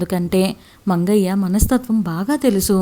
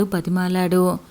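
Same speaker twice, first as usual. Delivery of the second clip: plain reading voice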